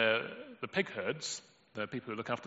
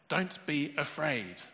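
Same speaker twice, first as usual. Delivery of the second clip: gentle reassurance; 4 semitones higher, much slower than usual. Acted. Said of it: "Jesus spoke to them and said".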